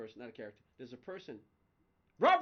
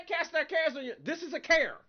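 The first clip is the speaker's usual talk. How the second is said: 1 laughing; 12 semitones higher, 10 dB louder than usual. Retold or imitated. Arguing with God, amused.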